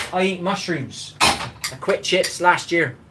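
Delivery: slow and firm, every word spaced; slow, deliberate. Real, not acted. Telling a viewer he quit chips, slow and emphatic. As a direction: lay it down slowly as a rule.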